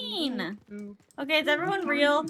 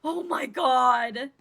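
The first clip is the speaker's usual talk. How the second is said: shocked gasp; 6 dB louder, slower than usual. Real, not acted.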